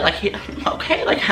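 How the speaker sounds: laughing. Retold or imitated. Tipsy, laughing at crush.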